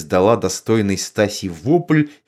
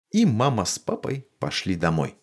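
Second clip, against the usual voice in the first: ordinary delivery, nothing marked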